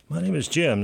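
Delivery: bright radio host greeting; upbeat intro. Real, not acted. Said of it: "I'll probably just start over".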